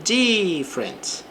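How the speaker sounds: "Different" with the weight on DIF, slow; slowed teaching stress on "Different". Shown as a demonstration. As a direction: lean on the first syllable, DIF-ferent. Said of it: "a sílaba forte fica aqui no início".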